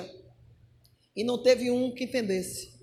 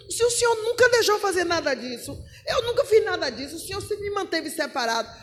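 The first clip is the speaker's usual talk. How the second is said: higher-pitched, aggrieved plea; pleading protest; 4 semitones higher than usual. Acted. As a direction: protest earnestly to God, voice lifted. Acted Ezekiel protesting to God.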